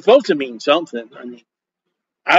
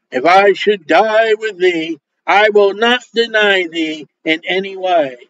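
vehement vow. Acted. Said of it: "he spake the more vehemently".

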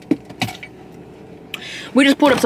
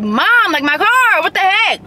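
higher mock distress to mom; retold panicked call; 9 semitones higher, slower than usual. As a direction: whine it to mom on the phone.

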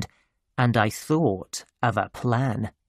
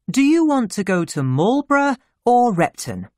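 high-pitched motherly question; mother's voice; 9 semitones higher, 3 dB louder than usual. Acted. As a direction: ask as a mother offering a choice. Mother asks her son.

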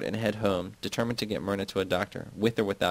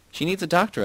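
shout; 9 semitones higher than usual. A narrator's reading. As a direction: yell it at them, higher and higher. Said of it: "I shout".

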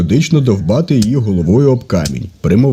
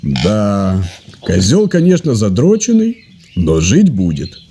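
lightly voiced Russian-speaking vet; vet with a Russian accent; 2 semitones lower, slower than usual. Vet tells the Russians the diagnosis, light Russian accent.

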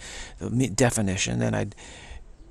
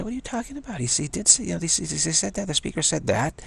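mock indignant retort; 6 semitones higher, faster than usual. Acted quarrel after a talk.

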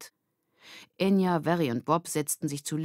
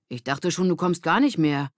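lightly voiced girl, a bit louder; relieved friend greeting her; character voice; 4 dB louder than usual. Girl teasing her late friend, lightly voiced.

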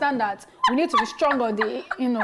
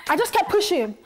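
hyped motivational speaker. Pretend. Mock speaker answering interview.

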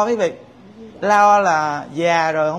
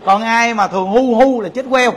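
joking laugh; 3 semitones higher, 4 dB louder than usual. Shown as a demonstration. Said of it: "Đừng có khóc nghe các cụ".

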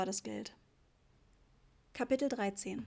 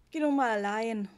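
whiny complaint; 6 dB louder than usual. A narrator's reading. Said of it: "sagte er mit klagender Stimme".

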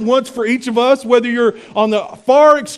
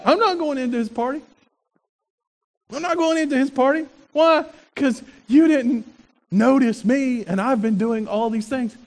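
softer, sulky pouting; sulky older son, quieter; sulking tantrum; 4 dB quieter than usual. Retold or imitated. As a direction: pout and refuse to go in. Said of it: "he throws a little tantrum".

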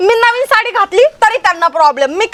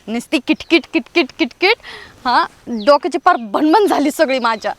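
low, weepy grumbling to herself; half-crying over the daily nagging; tearful complaint; 7 semitones lower, 3 dB quieter than usual. Acted. Daughter-in-law cries alone after the quarrel, weepy and low. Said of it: "रडू नको ना तू".

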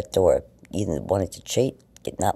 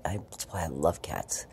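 whispered; 3 semitones lower, 6 dB quieter than usual. Real, not acted. Soft confession about cats.

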